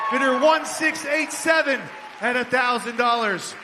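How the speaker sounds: auctioneer calling bids. Acted. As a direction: keep the room bidding with big energy. Charity auction bid calling.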